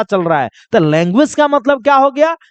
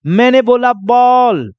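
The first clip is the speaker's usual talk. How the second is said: slow demo. Shown as a demonstration. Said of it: "मैं बोल कर दिखा रहा हूं".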